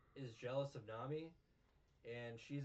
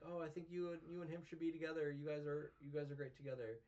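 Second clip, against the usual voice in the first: mock high voice; 5 semitones higher, faster than usual.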